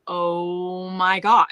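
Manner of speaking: slow, drawn-out dismayed exclamation; devastated reaction. Retold or imitated. Reliving hearing the playlist's last song, devastated. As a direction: stretch it out in mock devastation. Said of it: "It's so devastating".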